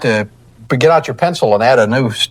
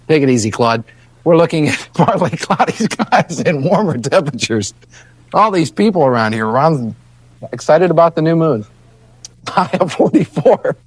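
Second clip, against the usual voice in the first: trying not to laugh. Real, not acted. Weatherman laughing through forecast.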